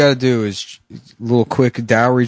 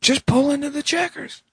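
high voice; 14 semitones higher, 4 dB quieter than usual. Acted. High-pitched demand.

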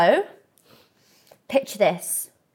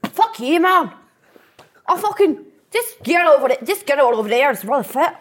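mock drunk lad; 2 semitones higher than usual. Drunk lad in a club, acted.

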